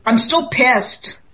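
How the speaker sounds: slow, sulky voice of an offended stone; grumpy rock voice. Retold or imitated. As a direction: drag it out like a sulking rock. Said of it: "talk to me and say".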